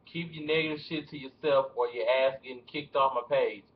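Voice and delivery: put-on T.I. accent, slow and deliberate; attempted T.I. accent, drawn out. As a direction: try a T.I. accent for a scolding rant. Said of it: "It's so hard to do my T I accent".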